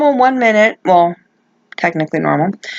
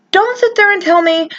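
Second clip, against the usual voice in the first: passionate, near tears; 6 semitones higher than usual. Real, not acted. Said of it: "I'm just very, very passionate".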